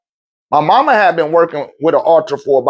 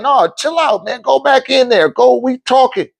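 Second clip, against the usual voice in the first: retold brush-off; 7 semitones higher than usual. Retold waving off of worried friends.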